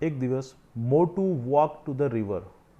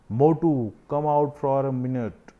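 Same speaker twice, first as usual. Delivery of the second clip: called out; 2 semitones higher, 5 dB louder, much slower than usual. Acted. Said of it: "Shout એટલે બૂમ મારવી".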